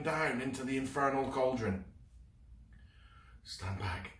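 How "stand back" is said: whisper. Acted. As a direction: quietly warn the others. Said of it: "in a whisper".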